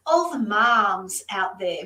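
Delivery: slow, careful American accent; a light American accent attempt. Shown as a demonstration. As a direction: try out an American accent on moms. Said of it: "get my American accent going".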